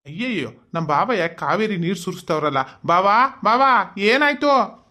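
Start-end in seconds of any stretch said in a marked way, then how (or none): 2.9-4.8 rising, louder anxious calls of bawa; worried calling out. Acted. Sister calls her crying brother-in-law, anxious and loud. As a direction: call out to him in alarm.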